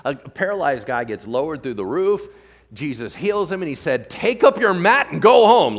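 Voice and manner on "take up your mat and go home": loud, high mock order; raised-voice imitation of an order; commanding. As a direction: call it out like a hammed-up command. Acts Jesus sending the man home.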